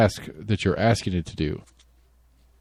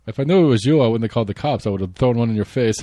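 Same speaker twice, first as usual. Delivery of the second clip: mock Finnish accent. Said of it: "not sure how good my accents are".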